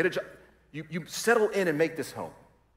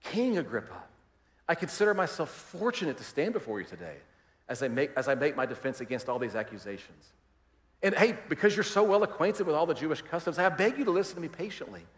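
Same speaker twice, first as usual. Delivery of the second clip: gracious. Retold or imitated. Paul addressing King Agrippa, gracious and polite. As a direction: speak kindly to the king. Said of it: "notice the way he does it".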